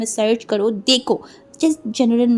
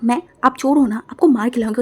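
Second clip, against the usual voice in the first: angry retort; 4 dB louder than usual. Acted. Quarrel continues.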